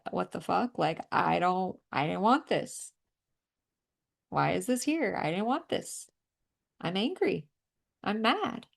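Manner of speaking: indignant, voicing someone's frustration; acted mild anger. Healer voicing clients' anger at their dad, mildly indignant. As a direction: let mock indignation build a little. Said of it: "You might feel a little bit pissed".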